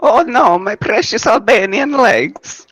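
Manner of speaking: very high, mock lament; whiny character voice. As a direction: wail like a wounded fool. Character wailing about injury.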